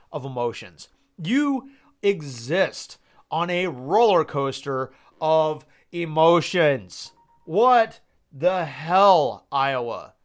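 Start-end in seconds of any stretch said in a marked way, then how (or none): 1.2-10.1 exasperated rant. Real, not acted. Exasperated fan ranting at Iowa.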